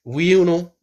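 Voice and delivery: half-successful take-off of a characteristic questioning style; Jack. Retold or imitated. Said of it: "Il repose la question et il dit".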